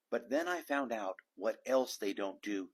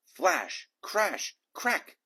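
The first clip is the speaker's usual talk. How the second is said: rising higher and louder each word; dramatic storm words; 7 semitones higher, 5 dB louder, much slower than usual. A narrator's reading. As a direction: build the thunder word by word. Storm sound words climbing.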